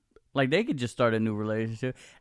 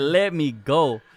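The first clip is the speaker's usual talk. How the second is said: drawn-out plea; 5 dB louder, much slower than usual. Retold or imitated. Retelling her struggle to get free.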